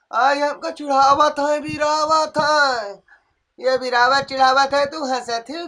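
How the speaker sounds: a grumbling sick mother-in-law who moans and complains; lightly voiced ailing old woman.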